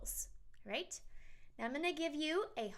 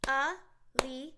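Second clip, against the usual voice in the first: syllable demo; 6 dB louder, slower than usual. Shown as a demonstration. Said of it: "I'm gonna try it with my own name".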